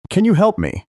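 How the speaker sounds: high, panicked plea for help; desperate plea. Acted. Desperate mother asks neighbors.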